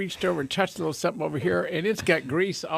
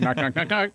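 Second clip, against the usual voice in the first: mock knocking said as words. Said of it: "my own sound effects".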